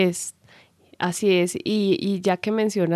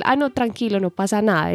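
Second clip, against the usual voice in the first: false reassurance. Acted. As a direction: play at insisting all is fine while meaning otherwise. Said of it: "el tono de la voz está diciendo otra cosa".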